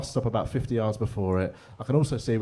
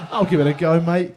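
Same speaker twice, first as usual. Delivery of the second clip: mock cocky Aussie-ish bloke; cocky guy; 4 semitones higher, 7 dB louder than usual. Comic mimics the audience member who boasted he could do it. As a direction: swagger through it like the cocky guy. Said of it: "I love that cocky guy over there".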